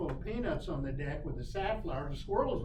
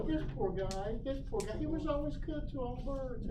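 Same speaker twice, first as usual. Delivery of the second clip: higher, mock-mournful crow voice; mock funeral lament, pitched up; mourning crows; 8 semitones higher than usual. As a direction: eulogize in a high, put-on crow voice. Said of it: "The crows will come up and go".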